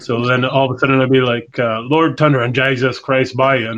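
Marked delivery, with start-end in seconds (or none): 1.8-3.7 put-on Newfoundland accent. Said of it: "talk like him".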